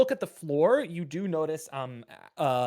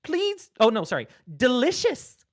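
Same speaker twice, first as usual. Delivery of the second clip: high, eerie doll voice; creepy doll whispering delicious; too calm creepy doll; 8 semitones higher, 5 dB louder than usual. Acted. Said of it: "and it says".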